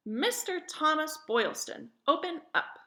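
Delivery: calling out. Acted. Women calling at warehouse door.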